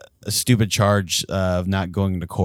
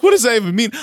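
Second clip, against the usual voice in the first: baffled friend; 8 dB louder, faster than usual. Retold or imitated. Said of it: "he's looking at me like".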